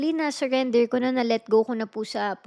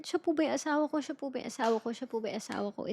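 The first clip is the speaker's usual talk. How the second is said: each ask softer than the last, pleading; fading repeated plea; 7 dB quieter, faster than usual. Retold or imitated. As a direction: let the prayer trail off into a hush. Repeated plea, retold prayer. (pahina nang pahinang pakiusap)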